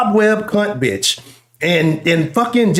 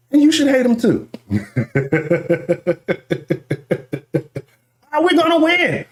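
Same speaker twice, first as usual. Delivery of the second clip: hammed-up hate rant; 6 semitones higher than usual. Real, not acted. Streamer rants to chat about hated rivals, hammed-up high voice. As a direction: rant at the Titans in a raised pitch. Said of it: "I'm very angry".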